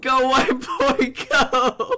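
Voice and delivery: loud, high hype shout; cheering on. Real, not acted. Streamer cheering the dancing character, excited shout. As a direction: yell encouragement to a dancer.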